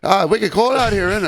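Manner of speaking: high-pitched mock Boston accent; terrible Boston accent. Retrying the Boston lady's line, badly faked Boston accent. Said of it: "I did a terrible accent".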